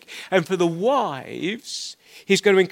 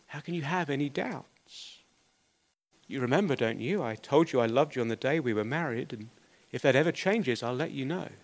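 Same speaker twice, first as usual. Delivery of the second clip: put-on a touch of a calm old husband, softer; calm reply; 3 semitones lower, 5 dB quieter, faster than usual. Old husband calmly answers his doubting wife, softly. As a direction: gently reassure his tearful wife, softer. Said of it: "he said calmly".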